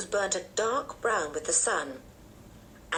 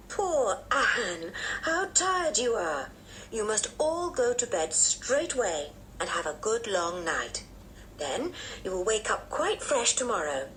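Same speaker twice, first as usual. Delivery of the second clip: lightly voiced motherly aunt; fussing aunt; 3 semitones higher than usual. Aunt sends children to bed.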